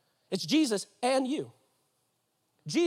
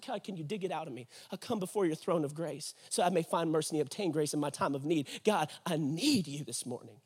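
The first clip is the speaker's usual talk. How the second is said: low, soft plea; humble prayer; 6 semitones lower, 6 dB quieter than usual. Acted. Believer comes before God's throne in need, humbly praying. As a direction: bring it right down into intimate prayer. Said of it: "coming back in a posture of prayer".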